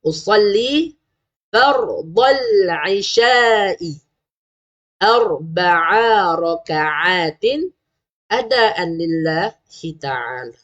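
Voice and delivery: drawn-out, chanted Arabic intention; slow niat recitation. Shown as a demonstration. Teacher reciting the niat to parents, slow and chanted. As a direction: recite each word slowly for parents to copy. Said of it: "Dan yang terakhir".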